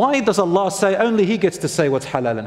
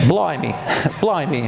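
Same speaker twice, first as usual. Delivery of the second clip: put-on joking British accent broken by a laugh; mock British accent. Preacher jokes with congregation after computer interruption, mock British accent. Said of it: "in the British accent".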